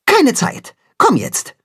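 brusque and hurried; curt reply. A narrator's reading. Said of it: "antwortet knapp".

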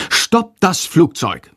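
slow, drawn-out high bat call. A narrator's reading. Little bat Sándor calling after the plane.

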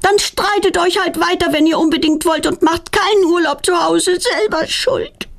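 high, huffy grumble while storming off; grumbling. A narrator's reading. Petronella grumbling on her way upstairs, high and huffy. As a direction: grumble it as you stomp upstairs. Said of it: "verschwindet meckernd".

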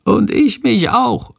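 a small bat joining in from a hood; little bat voice. Acted. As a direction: pipe up like a tiny bat. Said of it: "flüstert leise Shandor".

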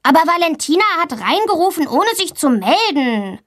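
fast, high-pitched tattling schoolboy; grumbling complaint. A narrator's reading. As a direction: whinge to the teacher like an indignant pupil. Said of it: "Max meckert".

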